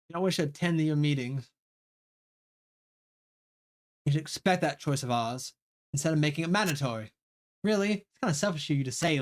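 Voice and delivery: lightly voiced bickering students; character argument read aloud. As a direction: read the rivals' spat with a touch of edge. Streamer voices rival characters arguing.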